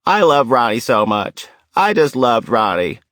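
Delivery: hammed-up wail of an overwrought mourner; retold shouting. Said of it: "She began shouting".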